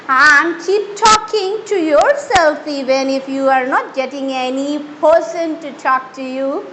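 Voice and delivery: slow, drawn-out farewell to viewers; slow outro. Acted. Teacher slowly signing off to her viewers. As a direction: stretch every word as you sign off.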